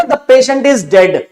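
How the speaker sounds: slow, deliberate "The patient is dead"; slow harsh version; blunt statement. Shown as a demonstration. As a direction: drag it out bluntly. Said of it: "अगर doctor ऐसे बोलेंगे ना".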